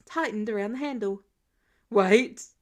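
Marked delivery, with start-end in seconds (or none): 1.9-2.5 calling out. Acted. Tony calling after Peter.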